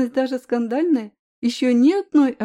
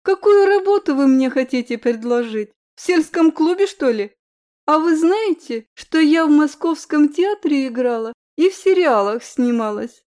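haughty diva; 3 semitones higher, 4 dB louder than usual. Acted. Offended diva boasting.

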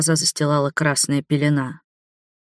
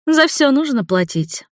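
shouting order; 8 semitones higher than usual. A narrator's reading. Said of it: "крикнула своим подручным".

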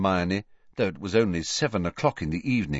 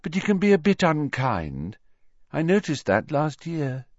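put-on higher, airy young girl voice, vague and matter-of-fact; Luna's voice; 6 semitones higher than usual. A narrator's reading. Luna telling Harry about crying Hermione, higher airy girl voice. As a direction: float the words like a dreamy schoolgirl.

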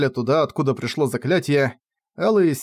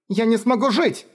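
much higher desperate plea; tearful girl; 9 semitones higher than usual. Acted. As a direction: plead through tears. Кефар в слезах. (Кефар в отчаянии плачет)

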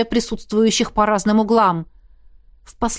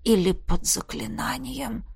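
wry afterthought; 6 dB quieter, slower than usual. Acted. Wry reversal after healing.

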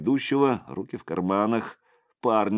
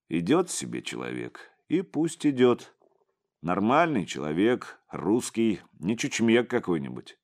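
ordinary delivery

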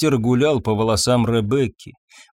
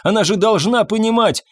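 trembling protest; 9 semitones higher than usual. A narrator's reading. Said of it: "трясся Фабьен".

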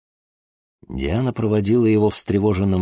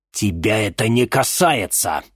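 growled anger; 4 semitones higher than usual. Acted. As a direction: snap it shut at her. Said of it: "прорычал Владимир Семёнович".

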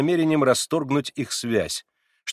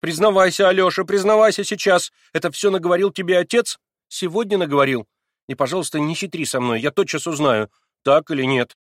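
higher and louder; angry demand; 7 semitones higher, 8 dB louder than usual. A narrator's reading. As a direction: demand a confession. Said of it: "гневным взглядом". (гневно требуя, громче и выше)

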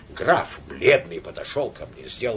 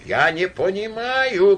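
higher, louder, slow helpless moan; louder groan; 7 semitones higher, 4 dB louder, slower than usual. A narrator's reading. Count despairing over the quarrel, louder slow groan. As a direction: let the groan swell in despair. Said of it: "простонал граф".

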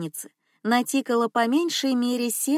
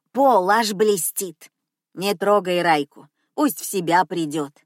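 put-on loud old cleaner; 4 dB louder than usual. Cleaner scolding in shop.

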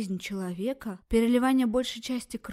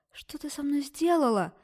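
higher, louder cry; shout; 6 semitones higher, 4 dB louder than usual. Acted. Girl screaming at the doctor, loud. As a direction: yell it at her. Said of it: "закричала".

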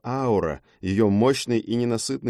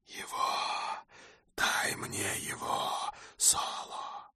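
breathless, toneless hiss of a hungry harpy; eerie harpy whisper; 12 dB quieter, much slower than usual. Acted. Harpy Kai hissing at Solo for the boy. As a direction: whisper it like something inhuman and starving.

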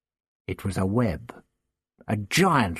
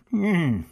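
thoughtful grunt; 5 semitones higher, 3 dB louder than usual. Acted. The Doctor testing the web, a short grunt. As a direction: grunt while thinking. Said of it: "he grunted".

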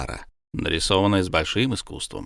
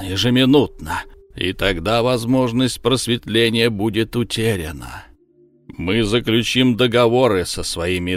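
booming voice. Acted. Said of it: "возвысил голос и теперь гремел".

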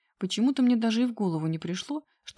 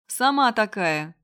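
louder, drawn out yelling back; slow shouted retort; 2 semitones higher, 6 dB louder, slower than usual. A narrator's reading. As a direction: yell it down the stairwell. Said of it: "закричала я". (кричит вслед через перила)

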